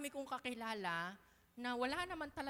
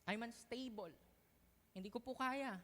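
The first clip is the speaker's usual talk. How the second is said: humble prayer. Pretend. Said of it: "aminin yan sa Panginoon na".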